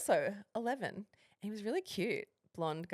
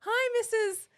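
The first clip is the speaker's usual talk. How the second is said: put-on polite kid voice; 9 semitones higher than usual. Retold polite phone call as child.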